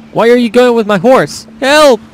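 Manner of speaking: hammed-up plea for help; mock cry for help. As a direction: call out after a horse taker. Acted cry as horse is taken.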